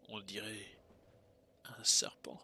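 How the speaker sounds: hushed whisper. Real, not acted. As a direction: breathe the words out. Whispered discovery of snake.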